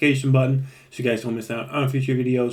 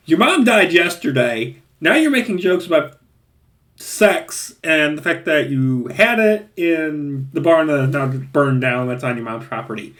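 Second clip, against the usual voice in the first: exasperated disbelief; 3 semitones higher than usual. Retold or imitated. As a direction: lecture the character in disbelief. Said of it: "I'm like".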